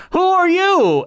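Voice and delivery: high, loud overacted reviewer line; bad acting. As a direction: ham it up like a bad YouTube critic. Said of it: "another reviewer would come in and it's like".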